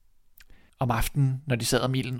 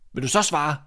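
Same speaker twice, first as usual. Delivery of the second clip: demanding, slightly raised call; mild shout; 3 semitones higher than usual. Acted. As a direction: insist on an answer. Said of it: "råbte drengen". (let råbende, krævende)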